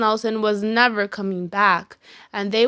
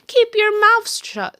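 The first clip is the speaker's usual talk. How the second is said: high, loud witch voice; witchy teacher; 11 semitones higher, 5 dB louder than usual. A narrator's reading. Strict teacher ordering silence, loud witch voice. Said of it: "said Miss Swamp".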